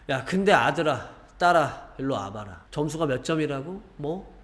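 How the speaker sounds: put-on exasperated parent scolding a child over exam scores, rising sharply to a high, angry peak at the end. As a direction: demand answers like a furious parent.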